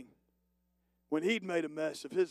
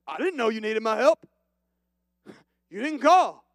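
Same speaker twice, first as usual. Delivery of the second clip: laughing Matt; 3 semitones higher, 8 dB louder than usual. Acted. Matt voiced in mock exchange.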